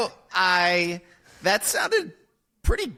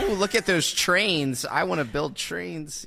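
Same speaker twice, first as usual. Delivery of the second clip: slow, mildly put-on fanboy voice; lightly mock a train-obsessed fan; Sonic fan; 3 semitones higher than usual. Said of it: "He can do the voice of a Sonic fan".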